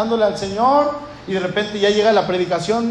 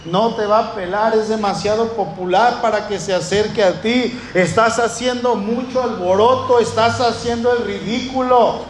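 scolding crowd. Retold or imitated. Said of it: "lo callan".

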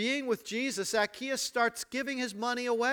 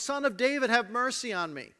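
raised cry, higher at the start; shouting for mercy; 4 semitones higher, 3 dB louder than usual. Acted. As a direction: call out over a crowd. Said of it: "shouting at the top of his lungs".

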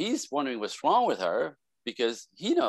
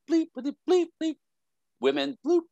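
mock bleeped rant. Friend's censored rant imitated.

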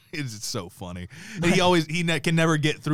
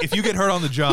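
louder, higher attempt at New York accent; 5 semitones higher, 5 dB louder, faster than usual. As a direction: imitate a tough New Yorker, badly. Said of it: "Let me get my, my New York accent".

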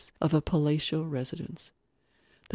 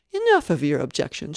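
firm, louder and final; firm retort; 8 dB louder than usual. A narrator's reading. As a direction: cut his excuses off firmly. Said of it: "she retorted firmly".

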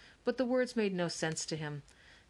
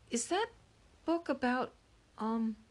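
put-on little boy voice; 6 semitones higher than usual. A narrator's reading. Little boy asks timidly.

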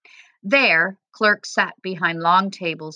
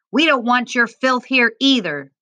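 raised, higher guard's yell; 6 semitones higher, 4 dB louder than usual. A narrator's reading. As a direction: yell it as a hostile guard, narrator-style. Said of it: "the guard yelled in Arabic".

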